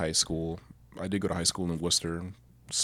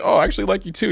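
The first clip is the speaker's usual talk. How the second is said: put-on girl's confession; 11 semitones higher, 9 dB louder, much faster than usual. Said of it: "she's like".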